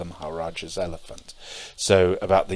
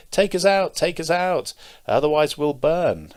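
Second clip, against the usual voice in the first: high, louder storybook cry for help; voice from the oven; 10 semitones higher, 6 dB louder than usual. Retold or imitated. Loaves in the oven begging the girl, calling out high. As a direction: call out urgently as little talking loaves. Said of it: "a voice comes out of the oven".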